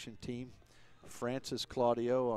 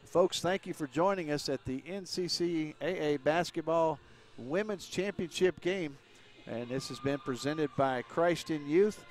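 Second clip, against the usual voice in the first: louder, higher announcer's send-off; broadcast sign-off; 4 semitones higher, 5 dB louder than usual. Acted. Commentator thanking viewers as the game coverage ends, projected announcer sign-off. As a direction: raise the voice to close out the broadcast.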